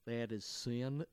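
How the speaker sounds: a hint of a solemn old priest scolding; old English priest. Priest scolding the swearing boy, low and slow. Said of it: "He's like an old Englishman".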